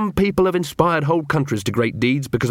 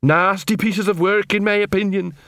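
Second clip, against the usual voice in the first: troll's conviction; 6 semitones higher than usual. A narrator's reading. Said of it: "with all the conviction of a troll".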